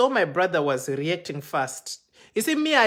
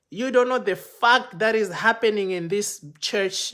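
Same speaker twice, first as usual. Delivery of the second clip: loud, raised "you don't know the fact", warning; threatening; 4 semitones higher, 5 dB louder than usual. Retold or imitated. Protocol guys threatening the speaker, loud raised warning. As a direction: press the warning hard.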